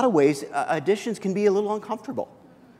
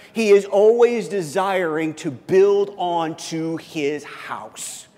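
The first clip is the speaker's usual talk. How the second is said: earnest emphasis; much slower than usual. Acted. Sermon point, slowed.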